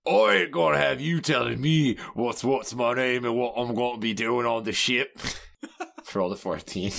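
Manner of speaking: swagger it out as a scary tough guy; half-joking tough-guy bluster; Slash alter ego. Pretend. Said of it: "you're doing a great alter ego impression there".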